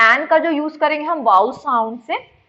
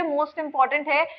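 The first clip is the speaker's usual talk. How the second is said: slow emphasis; 3 semitones higher, much slower than usual. Real, not acted. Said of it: "लिख लीजिए".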